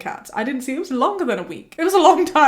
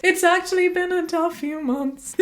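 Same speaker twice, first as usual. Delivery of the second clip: raised, earnest reply from the back; higher-pitched, conversational overshare; audience member answering candidly; 8 semitones higher than usual. Acted. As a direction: answer the singer as if chatting. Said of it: "in a normal speaking voice".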